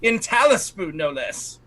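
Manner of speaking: high, theatrical showwoman voice; Lysinopril. Acted. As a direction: gush in a high voice, savouring the name. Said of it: "She says".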